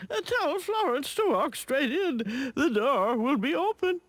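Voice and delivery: sniffly lady on the phone; stuffy cold voice. Acted. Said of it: "Miss Bleating replies".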